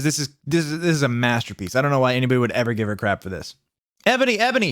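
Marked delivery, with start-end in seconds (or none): 4.1-4.7 high, pleading cry of a name; sad mock shout. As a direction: call her back, heartbroken and hammy. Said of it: "shouted Draco sadly".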